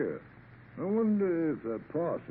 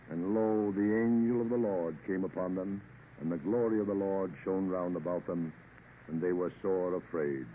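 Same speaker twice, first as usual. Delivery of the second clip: a captain reads Luke to himself; reading scripture aloud; 2 semitones lower than usual. Acted. Sea captain reading scripture aloud, solemn. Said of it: "reading aloud to himself".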